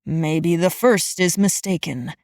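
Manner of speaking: put-on low, slow muttering old man; gruff aside under breath. A narrator's reading. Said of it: "he muttered".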